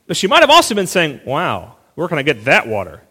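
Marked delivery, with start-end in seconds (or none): 1.3-3.0 dry, doubting sarcasm, pitch lower; sarcastic. Shown as a demonstration. Woman at the well mocks Jesus's offer, sarcastic. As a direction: scoff at his offer with a skeptical edge. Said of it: "a little bit sarcastic".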